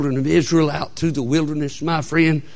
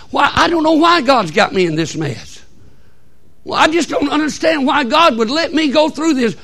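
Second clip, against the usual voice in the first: mock murmuring complaint; 12 semitones higher, 7 dB louder than usual. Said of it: "they always murmur".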